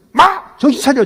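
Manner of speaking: sharp high bark; mock shout. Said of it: "저 같으면 그냥".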